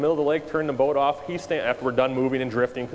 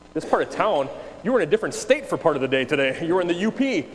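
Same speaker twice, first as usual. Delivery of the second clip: higher, amused disbelief; mock-incredulous, pitched up and lively; incredulous comeback; 5 semitones higher, 3 dB louder than usual. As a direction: throw the phrase back in playful disbelief.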